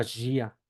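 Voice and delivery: Gia said as "ZHEE-a"; Portuguese pronunciation demo. Shown as a demonstration. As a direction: start Gia with a buzzing zh. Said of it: "por ejemplo, la palabra".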